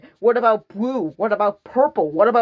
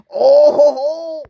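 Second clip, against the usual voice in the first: excited whoop; 7 semitones higher, 7 dB louder, slower than usual. Real, not acted. Delighted at free movie listing.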